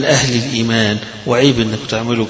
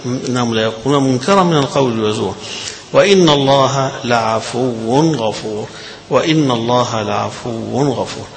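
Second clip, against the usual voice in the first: Quran recitation. Shown as a demonstration. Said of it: "recites verse".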